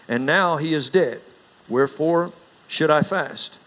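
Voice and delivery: measured, solemn Bible reading; scripture reading. Acted. Reads scripture before preaching.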